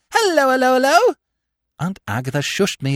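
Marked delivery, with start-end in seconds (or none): 0.1-1.1 high, chirpy string of hellos; loud-ish and pitched right up; breezy greeting. Acted. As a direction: sing out merrily, oblivious. Gentleman greets the room breezily.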